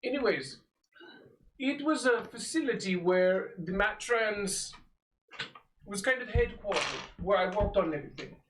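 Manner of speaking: lightly voiced old sage; a hint of a wise old mentor; old man voice. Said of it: "Indian Deckard Cain".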